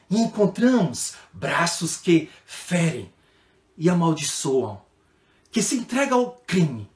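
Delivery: slow, grave poetic reading with long pauses; reading with emotion. Shown as a demonstration. Teacher reads the poem to children with feeling. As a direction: let each line of the poem land heavy and slow. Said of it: "a gente tem que dar uma emoção".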